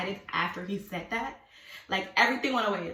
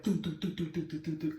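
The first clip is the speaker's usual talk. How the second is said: rapid string of do-do-do; soft, quick repeated pulse sound; imitated racing noise; 3 semitones lower, 3 dB quieter than usual. Showing how nothing was relaxing, imitated racing noise. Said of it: "everything's like".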